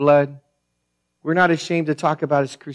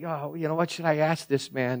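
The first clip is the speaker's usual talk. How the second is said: quiet inner thought; 8 dB quieter than usual. Retold or imitated. Nervous inner thought, quiet dinner.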